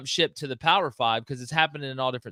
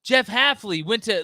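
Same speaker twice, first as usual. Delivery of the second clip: hammed-up alarmed fan, higher and louder; mock-shocked fan voice, higher; 7 semitones higher, 5 dB louder, slower than usual. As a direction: pretend to gasp at the news. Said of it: "And they're like".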